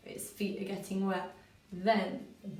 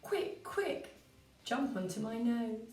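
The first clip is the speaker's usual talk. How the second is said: bunny voice; 2 semitones higher, slower than usual. Acted. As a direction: squeak it out like an eager rabbit. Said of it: "the bunny said".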